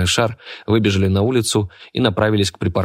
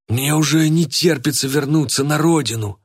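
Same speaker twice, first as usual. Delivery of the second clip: lightly put-on henchman voice, pitched higher; henchman longing; 8 semitones higher than usual. A narrator's reading. Henchman tells accomplices he longs for home, lightly put-on.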